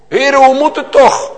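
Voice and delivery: high and loud, crying out to God; anguished cry, HOE pushed hard; loud anguished prayer. Retold or imitated. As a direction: call out the question in distress. Retold prayer on the way here.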